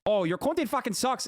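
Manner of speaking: high-pitched, embarrassingly poor Australian impression; mock them in a badly faked Australian accent. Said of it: "was that supposed to be an Australian accent".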